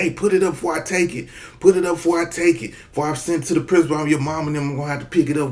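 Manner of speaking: a hint of a stern teacher, quick; teacher scolding. Teacher warns the class to put Game Boys away, quick mock scolding.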